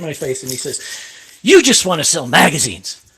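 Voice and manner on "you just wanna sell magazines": mildly angry, emphatic imitation; a touch of anger, accusing; retold angry accusation. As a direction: act out a jabbing accusation, hitting YOU. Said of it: "he gets so mad".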